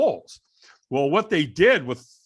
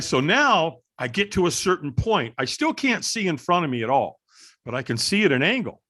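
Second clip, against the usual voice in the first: ordinary talk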